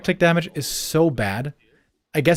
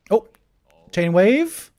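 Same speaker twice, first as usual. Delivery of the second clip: normal talking voice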